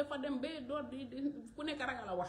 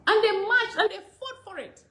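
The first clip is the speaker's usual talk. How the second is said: loud and higher, with a laugh; fired up, voice raised; rousing climax; 7 semitones higher, 14 dB louder than usual. Real, not acted. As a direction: build to a triumphant peak.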